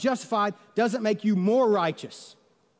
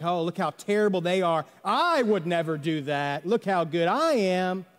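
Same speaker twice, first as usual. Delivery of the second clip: self-righteous. Retold or imitated. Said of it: "maybe even self-righteousness, like".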